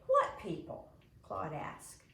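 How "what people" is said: put-on high, sharp confused kid's question; a clueless kid asking, pitched way up; puzzled kid. Claude asking the class, high and baffled. Claude asks about the inn.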